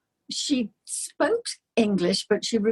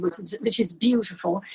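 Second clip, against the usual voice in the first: whispered aside. Real, not acted. Aside about Caerphilly.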